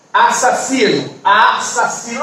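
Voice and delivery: "Assassino" measured out syllable by syllable; syllable separation. Shown as a demonstration. Teacher showing a class the separation of "Assassino", syllable by syllable. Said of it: "a separação de assassino".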